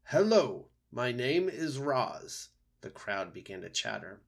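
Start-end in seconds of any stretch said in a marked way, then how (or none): 0.0-2.5 raised owl voice, drawn-out mimicry of a greeting; owl quoting the creature. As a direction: imitate the mysterious creature's greeting, higher at first. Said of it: "I think it was saying".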